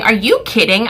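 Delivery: mock-indignant challenge, moderately forceful; livid, out loud. Customer starting to complain out loud at the till, livid. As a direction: let the disbelief out aloud. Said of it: "I'm starting to say it out loud now".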